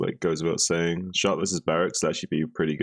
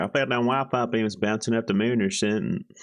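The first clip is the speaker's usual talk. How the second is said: fake American accent, pitched up; 5 semitones higher than usual. Told to go American, the speaker tries a put-on American accent. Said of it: "if I go American".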